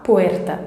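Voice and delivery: "puerta" with a tongue-tip Spanish R; trilled R. Shown as a demonstration. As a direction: model "puerta" with the R vibrating. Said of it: "falar o R corretamente". ("puerta" com o R vibrado)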